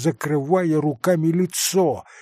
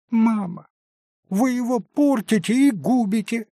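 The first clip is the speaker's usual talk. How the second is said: put-on high thin girlish voice; a thin little voice calling from behind the door; 9 semitones higher than usual. A narrator's reading. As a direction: pipe it up like a young girl through a door. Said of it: "послышался тоненький голосок".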